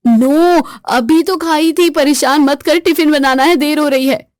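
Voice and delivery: mother scolding her nagging son; harried snapping. Acted. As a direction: shut the kid down, you're late.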